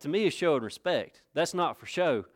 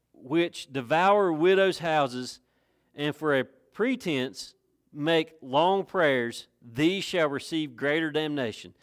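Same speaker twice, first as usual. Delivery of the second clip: slow, deliberate reading of the verse; scripture reading; slower than usual. Acted. Preacher reading scripture to his congregation, slow and solemn. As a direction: read the verse out slowly and solemnly.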